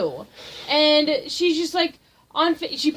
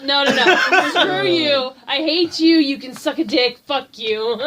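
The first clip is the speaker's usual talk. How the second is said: faked anger. Friend retelling her comeback to the prankster, mock anger. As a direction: pile on the pretend outrage. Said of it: "faking the anger".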